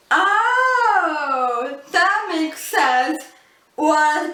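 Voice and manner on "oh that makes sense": drawn-out, higher "oh" of dawning understanding; mock "aha" moment, easing into slower words; imitated realization. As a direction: act out someone suddenly getting it. Acts out listeners' sudden realization.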